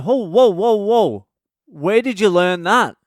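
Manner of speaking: loud, high-pitched acted alarm; shocked dad. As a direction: halt the kid with loud, high disbelief. Shocked dad reacts to swearing.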